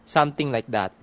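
"something like that" as "samting like dat". Shown as a demonstration. Demonstrating Tagalog-accented English, "something" as "samting". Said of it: "Something instead of something".

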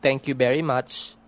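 "Thank you very much" as "tenk you berry much". Shown as a demonstration. Demonstrating rural Tagalog English, "very" as "berry". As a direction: say "very" with a B and "Thank" with a hard T. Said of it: "sometimes very is berry".

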